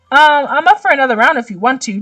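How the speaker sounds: politely offering, sweet tone. Acted. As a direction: switch to a nice, polite voice. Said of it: "Dimitri says politely".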